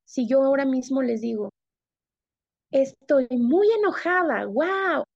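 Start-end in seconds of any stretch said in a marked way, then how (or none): 2.7-5.0 mismatched anger. Shown as a demonstration. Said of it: "no coincide la forma en la que estoy hablando".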